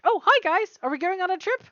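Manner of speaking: a hint of an eager pup; lightly voiced happy dog.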